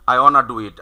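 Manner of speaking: "wanna" said as one word, no t; contracted "wanna". Shown as a demonstration. Teacher repeating the short form for students, "wanna" run together. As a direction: slide "want to" into "wanna". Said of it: "এই shortcut বলে দিল".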